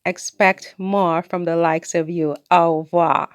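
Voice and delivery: a touch of haughty dismissal; haughty retort. Retold or imitated. Reading her snooty reply to the commenter, lightly haughty. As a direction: read it as a lofty put-down. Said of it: "I said".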